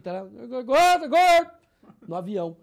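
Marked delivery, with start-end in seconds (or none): 0.6-1.5 loud high yell of gordo; shouted tic. Retold or imitated. Reenacting his tic shouting at the fat man, loud yell. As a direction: blurt it out loud as an uncontrolled tic. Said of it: "pra dar uma disfarçada no tigre".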